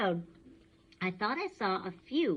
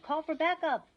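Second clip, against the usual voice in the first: urgent order; 9 semitones higher, 4 dB louder than usual. Acted. Alarmed cop.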